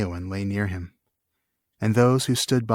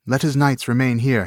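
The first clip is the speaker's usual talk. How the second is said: commanding; 3 semitones higher than usual. Acted. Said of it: "he said".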